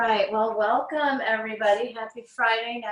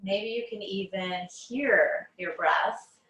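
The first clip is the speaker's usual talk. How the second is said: unhurried meditation guide, long pauses between phrases; guided meditation. Acted. Teacher guiding listeners on mats through breath awareness, guided meditation. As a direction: ease them into noticing the breath, phrase by phrase.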